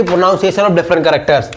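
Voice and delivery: slow and deliberate, word by word; slow dictation. Shown as a demonstration. Teacher dictates the topic to students taking notes. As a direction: dictate it so they can write it down.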